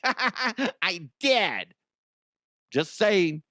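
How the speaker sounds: high, giggly put-on voice; gleeful patient. Patient admits the sugar binge to doctor, high silly voice. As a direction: own up with mock glee, pitched high.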